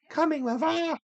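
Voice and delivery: high, mocking sisterly sneer; taunting stepsister. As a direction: jeer at her with a sing-song lilt.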